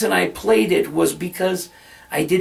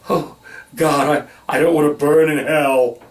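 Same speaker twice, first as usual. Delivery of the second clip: scared sinner; 3 semitones lower, 6 dB louder than usual. Retold or imitated. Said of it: "they go".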